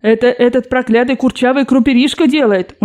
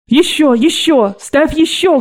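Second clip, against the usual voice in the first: grandmother crying out; 5 semitones higher, slower than usual. Acted. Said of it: "кричала бабушка".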